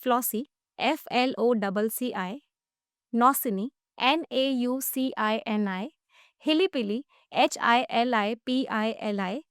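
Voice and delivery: slow, measured letter-by-letter spelling; broken into chunks. Shown as a demonstration. Teacher breaks down second word for host, slow chunked spelling. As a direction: break the word up, spelling each piece slowly. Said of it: "इसको भी break करते हैं".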